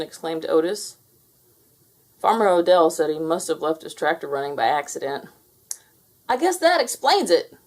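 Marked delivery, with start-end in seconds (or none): 6.3-7.6 high, louder deputy voice; agreeing deputy. A narrator's reading. Deputy Bob agreeing with Farmer Odell, high voice. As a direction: agree relieved. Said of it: "Deputy Bob agreed".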